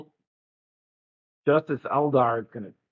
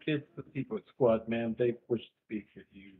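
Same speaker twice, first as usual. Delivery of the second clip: timid guard; 4 semitones lower, 10 dB quieter than usual. Acted. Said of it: "the guard says".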